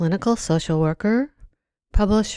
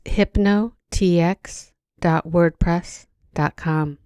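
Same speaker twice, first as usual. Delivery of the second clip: slow repeat; slower than usual. Real, not acted. Repeats website name slowly for listeners.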